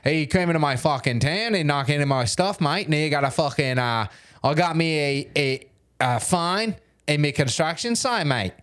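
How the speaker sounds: faltering attempt at an Aussie accent; bad Australian accent. Shown as a demonstration. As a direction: struggle through an Australian accent. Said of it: "Why can't I do an Australian accent".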